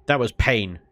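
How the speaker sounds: lightly hammed-up showman voice; a touch of a grand announcement; mock announcer. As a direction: present it to the crowd like a ringmaster.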